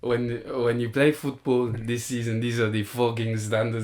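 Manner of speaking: lightly imitated Spanish football manager; earnest, emphatic team-talk impression; Arteta. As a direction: lay down the law in accented English. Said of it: "my Arteta one's goated".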